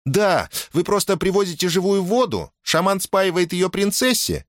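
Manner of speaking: put-on high-pitched, animated girl's voice; explaining girl. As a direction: pick up the thread and explain eagerly.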